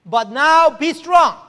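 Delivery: slow, loud proclamation of the Lord's word; proclaiming. Retold or imitated. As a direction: thunder it out like God speaking. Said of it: "the malaise of being enslaved by the past".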